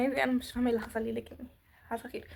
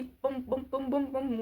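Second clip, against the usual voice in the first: evenly repeated "boom" beats; imitated heart pounding; slower than usual. Shown as a demonstration. Girl recalling her near breakdown, imitated heart thumps. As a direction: mimic a thumping heartbeat in the chest. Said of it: "الوجع اللي هنا والبوم".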